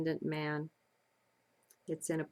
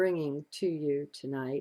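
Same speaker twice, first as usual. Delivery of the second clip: ordinary talk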